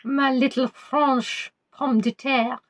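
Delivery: slow, lingering mock-French "pomme de terre"; mock-romantic French. Host teases Natalie in French, slow mock-romantic purr. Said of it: "you say stuff in French, it sounds lovely".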